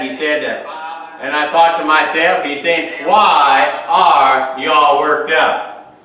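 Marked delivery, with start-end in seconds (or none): 3.1-6.0 insistent questioning. Acted. Quotes Jesus, drawn-out question.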